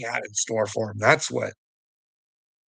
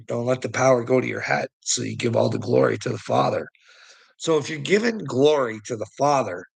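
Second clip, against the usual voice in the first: ordinary talk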